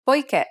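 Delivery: "Poiché" with the stress on final "ché"; last syllable stressed. Shown as a demonstration. Teacher giving another example of accents, last syllable stressed. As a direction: put the weight on the end of "Poiché". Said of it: "the last syllable should be stressed".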